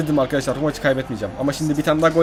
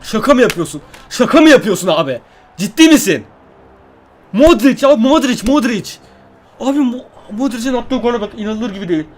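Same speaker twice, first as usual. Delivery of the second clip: loud, higher, can't believe what he just saw; shocked disbelief; 4 semitones higher, 4 dB louder than usual. Real, not acted. Gamer watching Modric score against him, shocked and loud. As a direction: exclaim it in stunned outrage at the screen.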